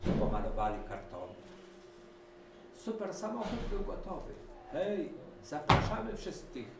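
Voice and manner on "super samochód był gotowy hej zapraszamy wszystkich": much higher, louder inviting call; calling dogs. A narrator's reading. Puppies inviting all the animals, calling out. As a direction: call everyone aboard. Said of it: "zawołały pieski".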